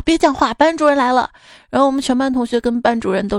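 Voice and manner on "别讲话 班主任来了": louder, higher mock yell; shouted warning. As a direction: call out an urgent warning to the class. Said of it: "大叫道".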